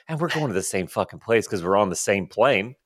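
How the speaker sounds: normal talking voice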